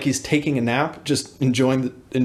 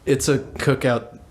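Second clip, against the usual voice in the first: slower, level relay; teacher relaying; slower than usual. Retold or imitated. Teacher reports to the principal by walkie-talkie, relaying. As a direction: pass it on matter-of-factly, slowly. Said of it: "He goes".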